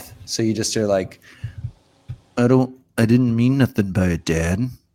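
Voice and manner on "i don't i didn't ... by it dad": closed-mouth, close-held voice. Showing the best way to do a Jeffrey Dahmer impression. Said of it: "the best way to do a Dahmer impression".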